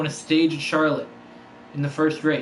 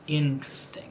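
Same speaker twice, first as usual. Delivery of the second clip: whisper; 4 dB quieter than usual. Real, not acted. Whispered aside during race.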